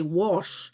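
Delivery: wash said as WARSH; drawn-out wash, sounding like warsh. Retold or imitated. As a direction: say wash with an R before the sh. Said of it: "she puts a R in it".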